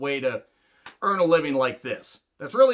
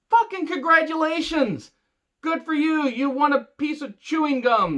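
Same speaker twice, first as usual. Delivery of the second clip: higher, mock cheerful praise; sarcastic congratulations; 10 semitones higher than usual. Real, not acted. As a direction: fake enthusiasm dripping with sarcasm. Mocking a 24/7 champion.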